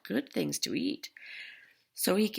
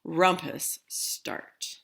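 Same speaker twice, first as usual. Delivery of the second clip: cried out; 7 dB louder, much slower than usual. Acted. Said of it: "cried Max".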